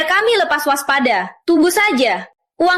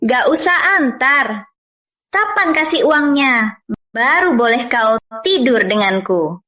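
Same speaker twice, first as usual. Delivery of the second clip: slow, measured terms, sinking lower at the end; cool, teasing demand; 5 semitones lower than usual. Acted. Woman demanding money before intimacy, slow and coolly teasing. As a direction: take your time laying down the condition.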